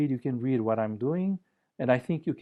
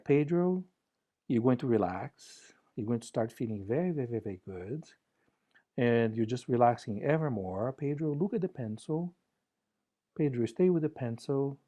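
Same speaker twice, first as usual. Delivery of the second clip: kind bedside voice. Shown as a demonstration. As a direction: soothe yourself like a kind nurse. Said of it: "with a kind voice, you know, bedside manner".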